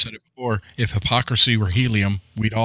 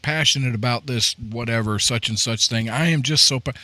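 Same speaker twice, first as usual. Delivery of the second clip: mock passionate; 3 semitones higher than usual. Mimicking people who argue from passion, mock fervent. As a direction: gush it in mild mockery, pitched up at times. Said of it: "I've heard people".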